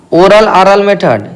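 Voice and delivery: Oral ऑरल method said slowly, word by word; slow, careful dictation. Shown as a demonstration. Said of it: "ऐसे लिख देगा".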